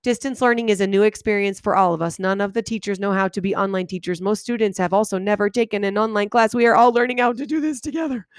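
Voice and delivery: no pauses, sentences blurred into one; run together. Shown as a demonstration. Teacher showing how the unpunctuated paper sounds to her. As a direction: rush it all as one sentence. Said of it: "what I hear when I read this is".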